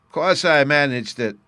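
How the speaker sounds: high, loud, slow, half laughing, half crying; laughing through tears. A narrator's reading. Bruno answers his sister, laughing through tears. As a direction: brighten up mid-sob. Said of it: "laughing through his tears".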